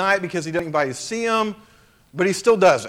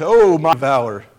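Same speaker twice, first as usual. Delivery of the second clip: a dry, mock-grand touch of sarcasm; sarcastic angel; 2 semitones lower, 3 dB louder than usual. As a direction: lightly tease him with mock praise. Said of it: "Sarcastic angel".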